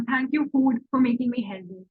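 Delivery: slow, careful thanks to food; slow spoken thanks. Shown as a demonstration. Teacher showing how she thanks her food, slowly. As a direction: draw it out as a heartfelt thank-you. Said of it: "मैं अपने food को thank you बोलती हूँ".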